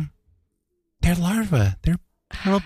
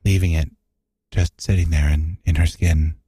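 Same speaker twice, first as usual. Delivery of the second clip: sexy voice; 4 semitones lower than usual. Pretend. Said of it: "you're doing sexy voice".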